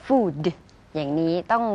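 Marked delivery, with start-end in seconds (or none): 0.1-0.4 "food" with the closing D clearly voiced; audible final D. Shown as a demonstration. Co-teacher shows the ending must be heard, audible final D. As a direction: let the D at the end of "food" sound. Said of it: "ได้ให้ได้ยินตัว D เสมอ".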